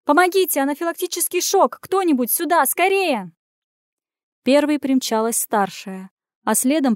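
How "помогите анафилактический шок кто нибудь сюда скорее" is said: yelling for help. A narrator's reading. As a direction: scream for help down the ward. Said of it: "вопя на всё отделение".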